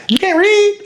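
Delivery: very high-pitched incredulous snap; retold snap. Trainer in prep loses patience with his class, high mock snap. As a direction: voice leaps up in exasperation. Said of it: "you snap".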